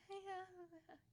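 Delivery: high, laughing brush-off; nervous laugh. Retold or imitated. Deflecting coworkers' questions about her husband, nervous laugh.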